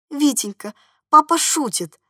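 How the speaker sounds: a touch of winsome charm; charming call. A narrator's reading. Lady assuring the boy that father is joking, charmingly. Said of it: "обворожительно крикнула спецдама".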